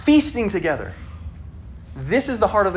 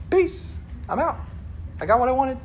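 a breezy kiss-off, dragging it out; cocky son; 8 semitones higher, 4 dB quieter than usual. Retold or imitated. Son leaving with inheritance.

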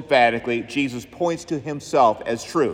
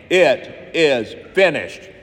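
slow solemn last words; slower than usual. Acted. Jesus' last words quoted.

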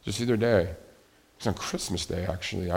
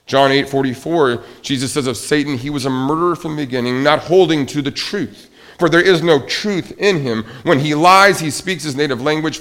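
raised pulpit voice quoting scripture; forceful scripture citation; emphatic preaching; 6 semitones higher, 8 dB louder than usual. Real, not acted. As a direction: drive the verse home, higher and firmer.

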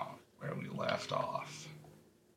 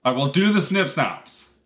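raised, insistent voice; emphatic, louder announcement; yelling; 3 semitones higher, 5 dB louder than usual. Real, not acted. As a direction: loudly take the job over. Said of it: "why you're yelling at me".

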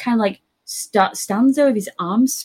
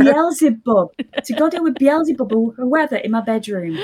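raised, incredulous rant; mock outrage; 4 semitones higher, 3 dB louder than usual. Thinking at dad over the ad break, incredulous. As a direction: sound appalled at dad's priorities.

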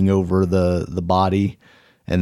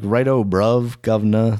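put-on British slang greeting; mock British accent. Cohost parodying a British person for his friend, mock British accent. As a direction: toss out stock British phrases in a British accent. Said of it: "not what a British person sounds like".

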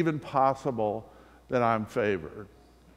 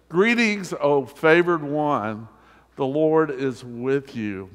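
raised, slow and solemn announcement; angel's greeting; 4 dB louder, slower than usual. Acted. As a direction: proclaim it like a herald angel. Preacher reads the angel's greeting.

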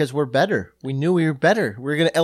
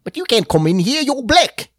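put-on a South African accent, pitched up; 8 semitones higher, 3 dB louder than usual. South African accent, blocking someone at the door. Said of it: "not bad, Case".

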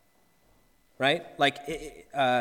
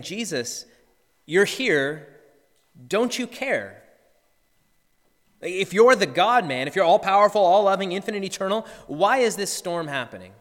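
pleading complaint swelling louder midway; imitated anguished anger; 3 semitones higher, 4 dB louder than usual. Believer crying out to Jesus in a storm, anguished and louder. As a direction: demand an answer from God, rising then easing. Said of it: "maybe you feel some anger".

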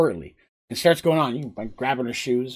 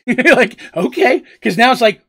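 laughing; 9 semitones higher, 9 dB louder than usual. Real, not acted. GM laughs mid-narration.

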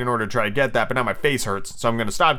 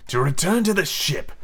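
measured villain captain; drawn-out pirate scheming; slowly through teeth; 4 semitones higher than usual. Acted. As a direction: reveal the plan deliberately through the teeth. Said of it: "Hook replied slowly through his teeth".

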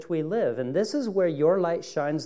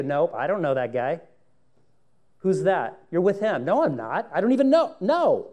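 flustered denial; 2 semitones higher, 5 dB louder than usual. Acted. Denial scene acted.

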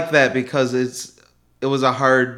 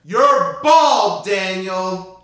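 high incredulous jab; incredulous, raised pitch; 5 semitones higher, much slower than usual. Acted. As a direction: call out the lie. Accusing in acted scene.

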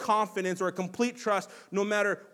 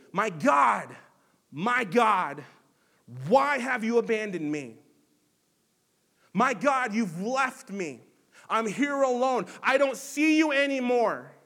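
loud anguished cry; 2 semitones higher, 4 dB louder than usual. Retold or imitated. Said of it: "screaming this at the top of his lungs".

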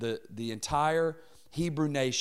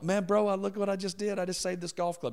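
higher, outraged protest; protesting to the boss who stops him at the door; indignant disbelief; 7 semitones higher than usual. Retold or imitated. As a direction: plead like you just did a great deed. Indignant retold self.

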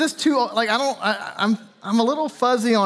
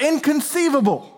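a mock yell of inconceivable, pitched higher; Vizzini's yell; 6 semitones higher than usual. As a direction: play the outraged schemer, lightly. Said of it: "he just yells out".

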